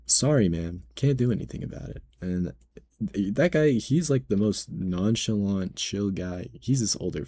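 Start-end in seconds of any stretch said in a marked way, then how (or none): 0.1-2.0 quick, clipped brush-off, pitched up at the end; curt manager voice. Retold or imitated. Other manager dismissing entitled customer, quick brush-off. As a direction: rattle it off fast.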